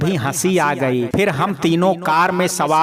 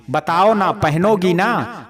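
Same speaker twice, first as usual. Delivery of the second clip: lovingly coaxing. Acted. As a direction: coax her gently, drawing it out. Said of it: "अनुपम ने इतने प्यार से बोला".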